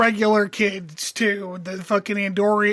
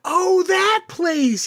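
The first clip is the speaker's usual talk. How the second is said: high, drawn-out "oh" of remembering; sudden recognition; 9 semitones higher, much slower than usual. Retold or imitated. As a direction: act out the moment it finally clicks. Acting out sudden recognition of a place.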